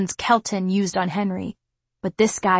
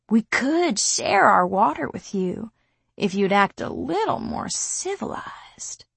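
skinhead. Acted. Skinhead leering at narrator.

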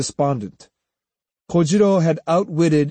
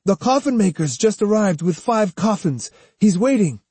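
puzzled report, pitched up; bewildered; 7 semitones higher than usual. Acted. Student telling the silent group of the coffins, bewildered. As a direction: report it, unsure what is going on. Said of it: "asking in a bewildered tone".

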